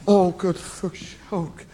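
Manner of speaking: soft, halting swearing with long moans; regretful cursing.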